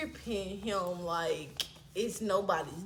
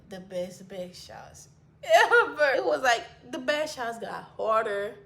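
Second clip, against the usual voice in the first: laugh-crying; 3 semitones higher, 4 dB louder than usual. Real, not acted. Bragging to friends about the night, laugh-crying. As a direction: laugh till it almost breaks.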